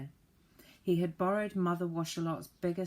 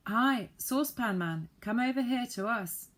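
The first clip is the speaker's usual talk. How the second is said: higher, louder call across a field; 6 semitones higher, 5 dB louder than usual. A narrator's reading. Joe calling the saucepan man back to the ladder, loud and high. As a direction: hail him from a distance.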